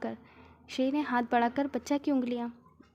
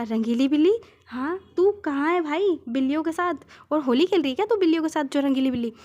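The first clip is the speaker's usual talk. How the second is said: loud mocking disbelief; 3 semitones higher, 7 dB louder, faster than usual. Friend mocks Shri's excuse on the phone, loud and fast. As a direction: fire back the silly excuse in loud disbelief.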